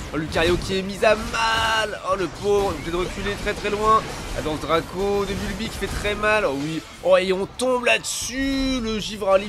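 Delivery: excited. Real, not acted. Teamfight play-by-play.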